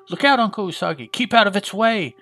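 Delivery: lightly acted warning, pitched high; high-pitched acted alarm, not shouted; mock urgent warning. Boy's shouted warning in retold comic.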